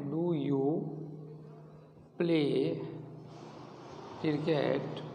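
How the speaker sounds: each word alone with long pauses; teacher dictating word by word; word by word dictation. Shown as a demonstration. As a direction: dictate it so they can write. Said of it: "teacher dictates question word by word".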